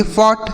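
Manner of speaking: फॉट said as one syllable, silent gh; correct pronunciation. Shown as a demonstration. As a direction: say फॉट with "ght" as a plain t. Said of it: "ये देखिए सही उच्चारण है".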